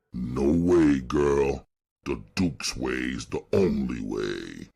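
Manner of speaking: a big man shutting her down; big driver, firm. A narrator's reading. Silent driver refuses.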